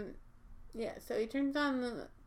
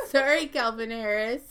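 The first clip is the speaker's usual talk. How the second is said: laughing repeat; 11 dB louder than usual. Real, not acted. Echoing the joke laughing.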